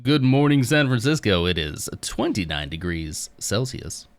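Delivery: radio morning host, big opening then slowing. Shown as a demonstration. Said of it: "like, radio voice".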